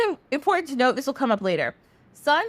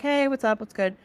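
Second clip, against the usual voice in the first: downer. Acted. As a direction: greet a friend with little energy, sinking at the end. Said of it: "a little bit of a downer".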